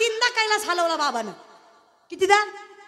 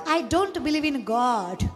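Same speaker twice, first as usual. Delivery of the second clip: proud quote; 5 semitones lower, much slower than usual. Retold or imitated. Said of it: "फार कौतुकाने सांगते".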